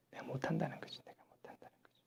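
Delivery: barely audible, defeated whisper; whispered lament. Acted. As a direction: lament under your breath, fading away. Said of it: "탄식하는데". (속삭이듯 탄식)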